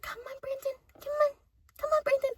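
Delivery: high, sing-song coaxing; coaxing the kid. Retold or imitated. Mother coaxing her son to leave, high sing-song. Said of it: "He's like".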